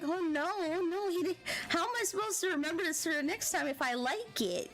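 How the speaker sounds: mock-flustered worry; mild retold panic. Retelling worry over her drink order.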